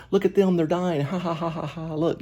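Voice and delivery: very high put-on voice, laughing through the words; mock gleeful cackle. Commentator mocking the operator's glee, very high cackling. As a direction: gloat over the dying like a cartoon villain. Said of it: "He's that guy".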